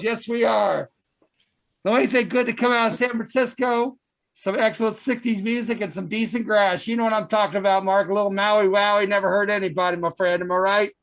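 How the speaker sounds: fiery TV preacher sermon. Acted. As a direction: preach to the congregation, building up. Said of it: "we have the Reverend Moses".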